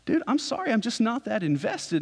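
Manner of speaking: high-pitched apologetic protest; mock defensive. Newcomer to his upset brother, mock defensive apology.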